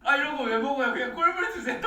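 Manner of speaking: mocking impression. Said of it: "분명 이번 한국 공연에서 들었거든".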